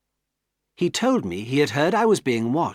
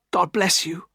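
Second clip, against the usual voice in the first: whispered blessing; 7 semitones higher than usual. Acted. Pip's last farewell to Estella, whispered blessing. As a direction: breathe the blessing out.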